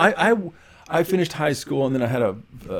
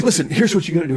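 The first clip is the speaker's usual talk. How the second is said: "Listen, here's what you gotta do" said loud and high through a laugh; grinning as he lays out the plan; laughing brother; 6 semitones higher, 6 dB louder, faster than usual. Retold or imitated. Brother laughing as he starts his advice. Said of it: "He starts dying laughing".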